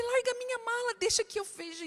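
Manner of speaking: wife ordering husband off her suitcase, high and sharp; retold sharp order. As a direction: snap at husband to drop the suitcase. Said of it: "E eu falei".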